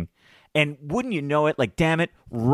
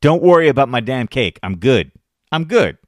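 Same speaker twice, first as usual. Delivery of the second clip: loud, firm brush-off; firm warning; 6 dB louder than usual. Retold or imitated. Fed-up dad warning a stranger off his cake, loud. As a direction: shut him down firmly. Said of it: "I finally looked at him and I was like".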